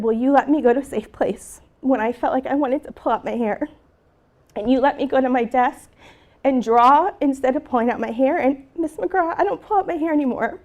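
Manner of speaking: holding back emotion while retelling; emotional. Real, not acted. Teacher recalls her pupil's breakthrough, emotional. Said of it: "I just get so emotional about that".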